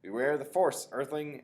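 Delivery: high, loud mock-menacing proclamation; hammed-up space villain; loud hammy sci-fi villain; grand Darth Vader line. A narrator's reading. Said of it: "Freak goes".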